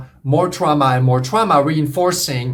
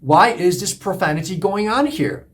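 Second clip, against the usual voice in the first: mild mock shock, pitched up; acted shock; 4 semitones higher than usual. Newcomer hearing group members swear, mildly acted shock. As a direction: lightly play taken-aback disbelief. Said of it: "you shocked initially".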